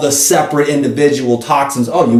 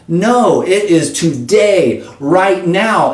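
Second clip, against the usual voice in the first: emphatic insistence; 5 semitones higher, much slower than usual. Real, not acted. Insisting on immediate effect.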